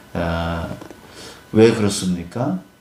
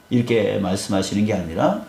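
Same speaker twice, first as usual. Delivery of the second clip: ordinary delivery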